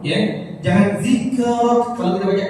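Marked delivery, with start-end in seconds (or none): 1.0-1.8 "zikrak" with the first kaf bouncing; wrong qalqalah. Shown as a demonstration. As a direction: echo a tiny vowel after k in "zikrak".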